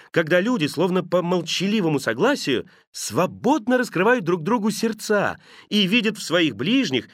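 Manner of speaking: lightly voiced nephew, ardent speech in lifted pitch; a hint of an impassioned young idealist; earnest, cheerful nephew. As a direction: argue for Christmas with growing fervor. Nephew's heartfelt Christmas speech.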